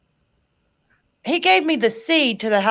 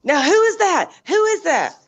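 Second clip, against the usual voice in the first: higher-pitched imitation of curious kids; lightly mocked children's questioning, pitched up; kids asking; 6 semitones higher than usual. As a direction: mimic kids demanding to know who is calling. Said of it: "her kids be like".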